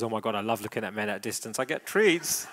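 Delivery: fast, delighted dog inner voice; happy dog voice. Pretend. Trainer voices the dog enjoying treats at a distance, quick and delighted. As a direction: rattle it off like a thrilled dog. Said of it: "And she goes".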